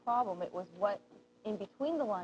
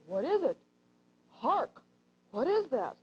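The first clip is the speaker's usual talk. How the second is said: very serious; 3 semitones higher, 4 dB louder, slower than usual. Shown as a demonstration. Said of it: "I'm supposed to play this very serious".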